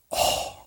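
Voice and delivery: soft deflated "oh", imitating shocked listeners; stunned "oh". Every person listening hears the bad news, stunned soft reaction. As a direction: let out a hushed, shocked breath. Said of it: "Every person listening just went".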